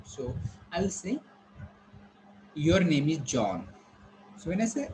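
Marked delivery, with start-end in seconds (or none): 2.6-3.7 slow statement with the tune falling on John. Shown as a demonstration. Teacher showing students a statement, falling tone. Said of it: "when it will be falling tone".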